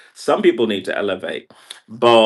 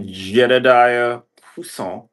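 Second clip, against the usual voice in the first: French accent; 3 semitones higher, 4 dB louder, slower than usual. Shown as a demonstration. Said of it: "call you with the French accent there".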